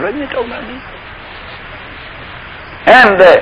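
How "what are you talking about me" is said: put-on startled boy's protest. Joseph protesting being sold.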